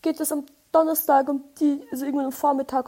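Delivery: sweet-as-pie caller asking for an appointment; a put-on friendly telephone voice; polite phone voice. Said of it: "war so".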